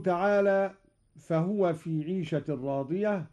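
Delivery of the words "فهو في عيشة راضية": Quran recitation. Acted. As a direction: recite it with tajweed. Recites verse. (تلاوة مجودة)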